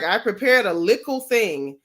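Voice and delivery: lightly put-on Jamaican patois lilt; mock Jamaican accent. Mocking a rival's borrowed accent, mock Jamaican. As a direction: imitate a forced Jamaican accent. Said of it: "You're not even Jamaican".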